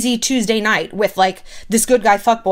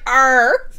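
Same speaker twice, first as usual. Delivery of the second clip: mock grunt; 3 semitones higher, 3 dB louder than usual. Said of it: "no one makes that sound in bed".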